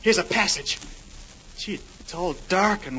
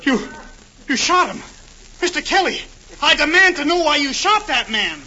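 indignant; 5 semitones higher than usual. Acted. Alan confronts gangster over shooting.

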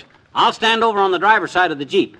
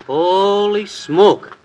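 surprised; much slower than usual. Acted. Drawn-out surprised exclamation.

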